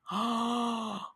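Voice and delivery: the penny drops mid-sentence; shocked realization. Retold or imitated. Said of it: "I went, gasps".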